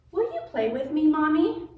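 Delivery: lightly voiced little girl asking to play; pleading child. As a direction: ask Mommy sweetly to play. Child Lucy asks mother to play.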